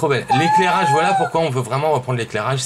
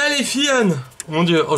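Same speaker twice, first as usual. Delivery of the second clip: trembling; 3 semitones higher than usual. Real, not acted. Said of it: "j'en tremble".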